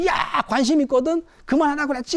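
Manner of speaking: husband snapping at wife to drop it; irritated husband. Acted. Husband snaps during marital quarrel. (짜증 난 남편의 쏘아붙임)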